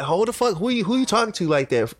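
high mock angry challenge; retold comeback. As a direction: fire it back high at the sergeant. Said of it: "I'm like".

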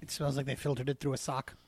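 low flat robot voice; deadpan robot delivery. Pretend. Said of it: "Are you talking like that on purpose?".

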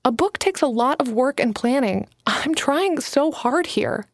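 a hint of a nervous young writer pitching her idea; young Alana, eager. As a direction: lift the voice a little for eager Alana. Alana's dialogue continues.

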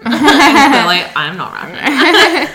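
slow laughing aside. Real, not acted. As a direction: laugh through it. Laughing at own accent.

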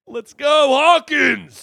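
excited cheer. Real, not acted. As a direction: cheer the town on. Cheering as the show starts.

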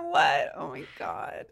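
defeated whisper. Retold or imitated. After her plant is cut down, a stunned whisper. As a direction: deflate into stunned disbelief. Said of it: "I've totally cried".

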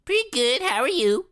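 high, bright polite answer; high chirpy reply. Acted.

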